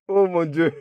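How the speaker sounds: high exclamation amid laughter; amused disbelief. Acted. Son scoffs at the baby's name, high amused disbelief. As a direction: exclaim as the laughter takes over. Amazed between bouts of laughter.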